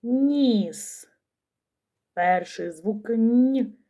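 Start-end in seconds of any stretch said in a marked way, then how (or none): 3.1-3.8 Н palatalized as nʲ; soft consonant. Shown as a demonstration. Teacher analyses ніс for children, sounding a soft Н. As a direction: sound out Н alone, softened and held. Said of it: "М'який приголосний".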